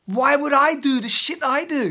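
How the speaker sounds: high, loud self-reproach; self-directed frustration. Pretend. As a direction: turn the rage on yourself. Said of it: "that same energy is like".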